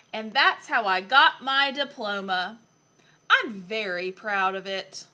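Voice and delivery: put-on lively, expressive story reading for a young child; picture book reading. A narrator's reading. Adult reading Lion Lessons to a child, animated storytelling. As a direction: read it aloud with playful emphasis.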